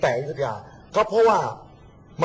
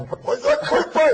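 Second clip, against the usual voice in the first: high, slow repeated "hey"; mock alarmed calling; 12 semitones higher, 4 dB louder than usual. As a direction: act out an alarmed shout while laughing. Acted startled reaction in retelling. (ร้องเฮ้ยเสียงสูงแบบล้อเลียน)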